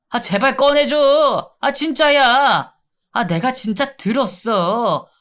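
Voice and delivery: pleading inmate. Acted. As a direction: beg to be let out, whimpering.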